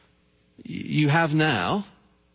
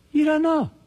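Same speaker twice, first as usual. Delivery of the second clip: urgent cry; 12 semitones higher, 4 dB louder than usual. Acted. Urgent warning in sermon.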